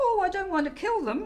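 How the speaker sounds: very high squeak. A caller to a general inquiries number answers the voice, squeaky voice. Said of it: "I squeak into the phone".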